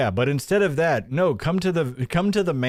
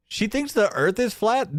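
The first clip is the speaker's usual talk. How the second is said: ordinary talk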